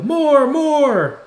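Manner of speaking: high, loud cheer for an encore; drawn-out, high-pitched yell; crowd yell. A narrator's reading. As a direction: shout it out high like a clamoring crowd. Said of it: "stamp their feet and yell".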